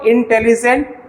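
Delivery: इंटेलिजेंट split into distinct syllables. Shown as a demonstration. Teacher asking students to count, इंटेलिजेंट said syllable by syllable. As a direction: sound out इंटेलिजेंट beat by beat. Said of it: "एक से ज़्यादा आया".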